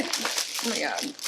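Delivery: low, soft and slow, barely there; overwhelmed hush. Real, not acted. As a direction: let it sink in, breathless. Overwhelmed with gratitude.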